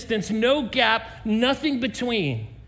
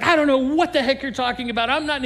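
frantic denial; 4 semitones higher, faster than usual. Retold or imitated. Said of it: "he just loses his mind".

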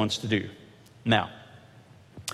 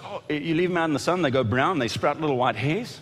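Donkey quote; 2 semitones higher than usual. Retold or imitated. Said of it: "He says".

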